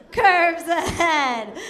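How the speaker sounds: slow, laughing through the words; slow giggling echo; laughing repeat. Pretend. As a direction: drag it out with a laugh. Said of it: "Now you can see curves ahead".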